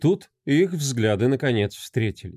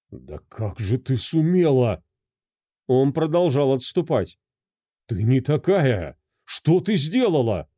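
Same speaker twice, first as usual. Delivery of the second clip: mild disbelief. Acted. Husband recoils in horror.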